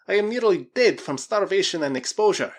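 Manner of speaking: high, loud, desperate plea; desperate Russian. Acted. Starving Krasky appeals to the Spaniard, high and desperate.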